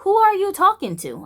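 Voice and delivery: high, rising outraged voice; retold furious inner voice; inner fury. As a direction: let the outrage climb. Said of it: "I felt like".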